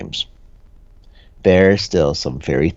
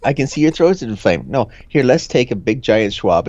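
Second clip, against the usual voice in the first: mock doctor; 4 semitones higher than usual. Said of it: "playing a doctor".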